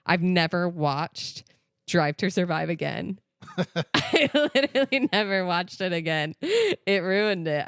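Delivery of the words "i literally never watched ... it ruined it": laughing. Real, not acted. Laughing over her own story.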